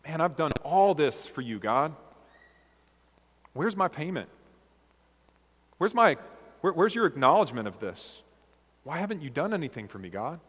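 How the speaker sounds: aggrieved, demanding tone rising to an indignant outburst; entitled complaint. Retold or imitated. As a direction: voice a servant who feels owed. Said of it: "would sound something like this".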